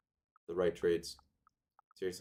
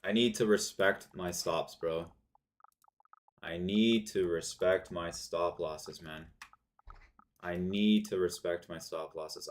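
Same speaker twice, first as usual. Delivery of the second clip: emotional self-scolding. Real, not acted. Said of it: "I'm emotional".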